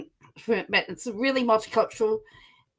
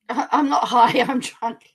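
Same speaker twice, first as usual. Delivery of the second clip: laughing mock quote; 5 dB louder, slower than usual. Jokingly voicing the streamer.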